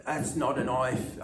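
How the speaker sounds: put-on a touch of an Australian accent. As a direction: lean on not in an Aussie drawl. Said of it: "broke out into an Australian accent".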